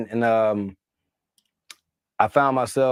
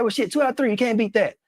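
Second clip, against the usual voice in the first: much higher, chummy mock-President voice; cheerful high-pitched President impression; imitating the President; 10 semitones higher than usual. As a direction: put on a folksy high presidential voice. Retelling the President's lines.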